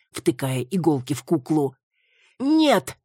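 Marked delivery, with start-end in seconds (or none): 2.4-3.0 high, loud cry; desperate no. Acted. Маруся shielding the figure, crying out high. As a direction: throw yourself in front of it. Маруся throws herself forward.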